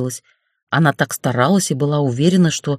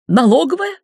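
high, louder tearful question; sobbing question; 10 semitones higher, 3 dB louder than usual. A narrator's reading. Nina sobs at the boss, high tearful question. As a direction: ask it through a sob. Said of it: "Нина всхлипнула".

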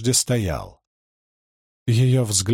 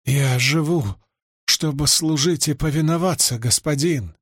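breathless gasping. Acted. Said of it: "задыхаясь".

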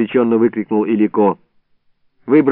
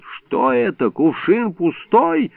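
growling in surprise; growled; 6 semitones higher, slower than usual. Acted. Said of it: "вдруг зарычал".

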